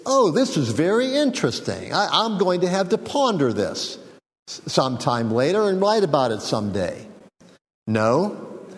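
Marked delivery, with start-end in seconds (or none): 0.1-7.1 mock nonchalance. Preacher mocking an unmoved reaction to God's glory, lightly. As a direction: play it like someone shrugging it off. Mock casual response, rhetorical.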